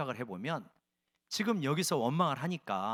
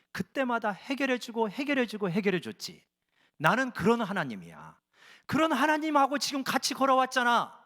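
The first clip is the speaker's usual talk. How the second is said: God's voice; 4 semitones higher than usual. Acted. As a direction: voice God, building from gentle to a scolding peak. God voiced scolding Israel.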